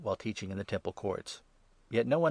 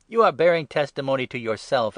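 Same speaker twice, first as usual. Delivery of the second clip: louder, indignant outburst; exclaiming; 4 semitones higher, 10 dB louder than usual. A narrator's reading. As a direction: fire the accusation back at him. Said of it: "exclaimed the Pharisees".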